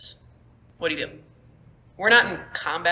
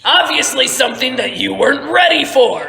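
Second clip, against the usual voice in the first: scornful jab; 6 semitones higher, 6 dB louder than usual. Acted. Merrick swinging at Stonebreaker.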